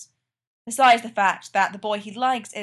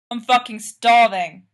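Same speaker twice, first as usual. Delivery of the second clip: calling out; 9 dB louder than usual. A narrator's reading. Frank calls from shower.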